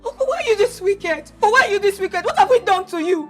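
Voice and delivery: heated tearful accusation; ranting. Acted. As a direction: pour out the grievance at uncle. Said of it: "When you are done ranting".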